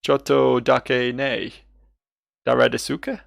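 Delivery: slow, careful stab at Japanese; halting foreigner's Japanese; tentative Japanese attempt. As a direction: sound out the Japanese as best you can. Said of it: "I'm taking shots at this".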